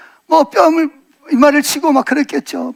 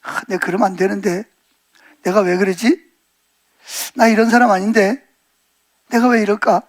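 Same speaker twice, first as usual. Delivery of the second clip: low, subdued inner voice of regret; dismayed self-questioning; 4 semitones lower, 3 dB quieter than usual. Acted. Preacher voices Peter's thoughts after denying Jesus, subdued dismay. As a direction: question yourself quietly, mildly dismayed. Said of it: "그럴 때 베드로 마음이 어땠을까요".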